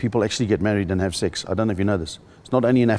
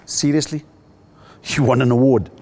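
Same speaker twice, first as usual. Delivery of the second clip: a higher, louder "Seriously?" teasing disbelief; wife mocking; 4 semitones higher, 5 dB louder than usual. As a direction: tease him like an unimpressed wife. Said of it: "And Sandy said to me".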